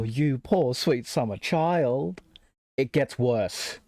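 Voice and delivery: slow, pitying put-down; mock condescending. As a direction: drawl it out like talking down to a child. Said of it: "that came off so condescending".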